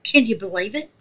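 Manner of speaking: can't believe her eyes; shocked disbelief. Real, not acted. Shocked at the uncovered mold.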